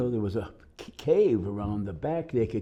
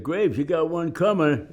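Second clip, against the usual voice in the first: raised, higher urgent call; a buddy's loud alert to Graves; calling out a warning; 9 semitones higher, 6 dB louder than usual. Retold or imitated. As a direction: shout the warning across the hole. Buddies warn of charging soldier.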